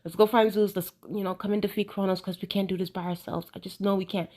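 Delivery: calm peaceful Hera. Retold or imitated. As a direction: play her as a suddenly serene saint. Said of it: "She's in her calm, peaceful era".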